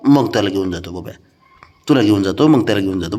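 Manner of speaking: low, soothing promise; placating reassurance. Real, not acted. Promising the sulker their turn comes first, soothing. Placating the sulking, jealous one.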